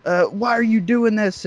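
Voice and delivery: high, slow mock mother's scolding; mom scolding. Mom scolding son about sister upstairs, high mock voice. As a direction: imitate a scandalized mom, drawn out. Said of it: "She's like".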